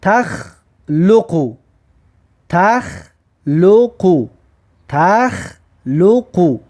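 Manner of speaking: تخ لقو stretched slowly; slow recitation. Shown as a demonstration. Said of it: "در بین کلمه میارد که".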